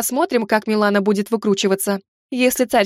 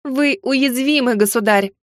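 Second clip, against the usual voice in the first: bold and cheeky; slower than usual. Acted. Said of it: "с внезапной для самой себя смелостью и дерзостью".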